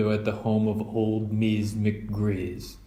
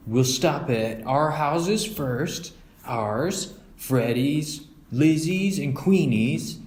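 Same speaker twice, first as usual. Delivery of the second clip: higher, slow planning cub; listing the stops one by one; Brother; 5 semitones higher, slower than usual. Acted. Brother reading his trick-or-treat map to his sister, planning.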